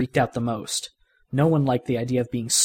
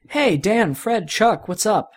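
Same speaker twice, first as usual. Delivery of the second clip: calling out; 7 semitones higher, slower than usual. Acted. Andy calling to the boys.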